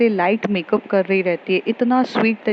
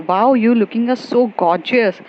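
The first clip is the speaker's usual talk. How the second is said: slow flirty compliment; much slower than usual. Retold or imitated.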